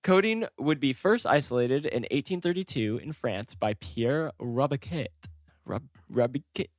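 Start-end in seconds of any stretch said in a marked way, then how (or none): 3.8-6.7 light, careful French pronunciation; attempted French accent. Shown as a demonstration. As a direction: try the name with a slight French accent. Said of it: "like, in a French accent".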